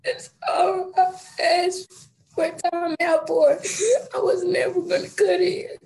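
half laughing, half crying. Real, not acted. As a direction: push the words out through nervous tears. Boy pleads in court, crying.

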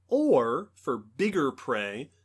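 muffled, mouth covered; hand over mouth. Real, not acted. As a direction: talk through a covered mouth. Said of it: "if I sound muffled, it's because I'm demonstrating".

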